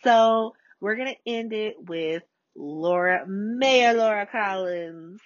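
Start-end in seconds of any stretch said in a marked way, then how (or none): 3.3-5.2 drawn-out, relished title and name; savouring the name. Real, not acted. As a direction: roll it out slowly, savouring it. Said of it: "I love saying that".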